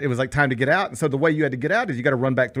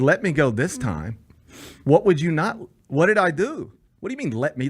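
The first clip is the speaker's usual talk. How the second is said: offended disbelief; 3 semitones higher than usual. Retold or imitated. Driver inwardly answering the officer, offended. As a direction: throw the phrase back in indignant disbelief. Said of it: "That offended me".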